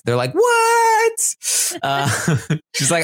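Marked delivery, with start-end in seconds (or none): 0.3-1.4 a startled squeal of disbelief; shocked what. Retold or imitated. Houseguests react in disbelief.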